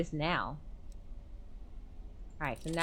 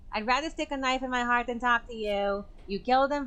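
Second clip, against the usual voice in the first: higher, venomous accusation; bitter accusation; 5 semitones higher, faster than usual. Acted. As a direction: spit the accusation out. Clarissa accusing Veronica.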